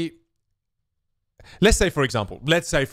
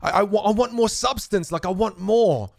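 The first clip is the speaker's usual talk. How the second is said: mock disappointment; 8 semitones higher than usual. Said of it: "I'm like".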